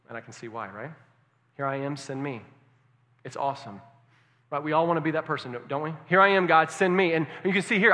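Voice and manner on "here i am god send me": loud, eager volunteer; loud eager cry of a willing volunteer; emphatic. Retold or imitated. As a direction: call it out boldly, ready to go. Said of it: "Isaiah was emphatic".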